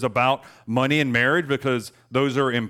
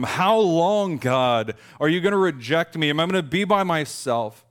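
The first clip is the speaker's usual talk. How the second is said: higher, louder desperate cry; anguished plea; 5 semitones higher, 4 dB louder than usual. Retold or imitated. Preacher voicing David begging God not to reject him. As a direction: beg God not to leave you.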